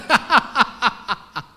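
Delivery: loud, hearty laugh; laughter. Real, not acted. Laughs at own story.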